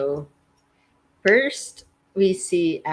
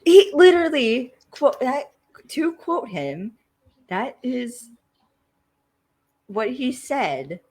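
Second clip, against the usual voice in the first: laughing while talking; 8 semitones higher, 4 dB louder than usual. Real, not acted. Laughing while retelling the actor.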